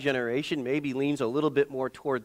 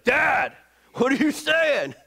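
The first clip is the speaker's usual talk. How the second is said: put-on high, louder protesting boy; son protesting; 11 semitones higher, 4 dB louder, slower than usual. Preacher voicing his son Nate, high shocked protest. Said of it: "'cause he's like".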